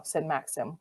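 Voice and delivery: plain reading voice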